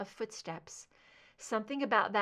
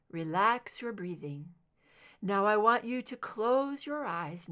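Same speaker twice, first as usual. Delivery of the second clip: calm hypnotic voice; 2 semitones higher than usual. Acted. Therapist guiding hypnosis.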